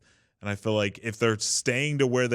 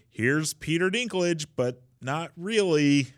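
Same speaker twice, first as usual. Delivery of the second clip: slow, raised, mock-grand introduction; mock announcer; 6 semitones higher, slower than usual. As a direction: present a fake celebrity with a wink. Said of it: "it's like".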